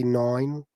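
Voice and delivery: "nine" said as "noin"; mock New York "nine", rounded to "noin"; Baba Booey. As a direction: say "nine" with an oy vowel, mockingly. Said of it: "make fun of Baba Booey on Howard Stern when he'd say".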